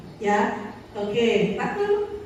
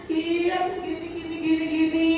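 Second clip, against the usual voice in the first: lightly voiced whiny pupil; a hint of a pampered kid, sing-song; spoiled child; 2 semitones higher than usual. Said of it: "agak-agak manja gitu". (murid manja merengek ke gurunya)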